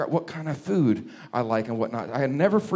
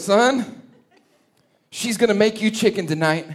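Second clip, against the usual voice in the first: laughing mom; 4 semitones higher, 4 dB louder than usual. Retold or imitated. Mom warns him laughing.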